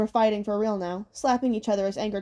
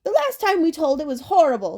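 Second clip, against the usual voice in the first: fretful hag; 6 semitones higher, 5 dB louder than usual. Acted. Hag recalls disaster.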